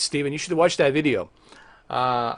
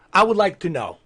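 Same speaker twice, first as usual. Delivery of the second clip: higher, emphatic wish for answers; insistent demand; 4 semitones higher than usual. Acted. Streamer asking viewers what's going on, insistent demand. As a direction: press the listeners for an explanation.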